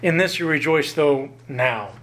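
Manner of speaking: "now" set firmly at the end, falling; stress on NOW. Shown as a demonstration. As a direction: read the verse to land on "now". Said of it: "I'll emphasize from First Peter".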